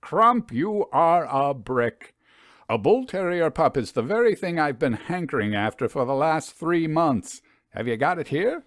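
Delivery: Crump called out high, then eager and quick-hearted; a young man who wants that pup now; eager delight. Acted. Harry thrilled about the pup.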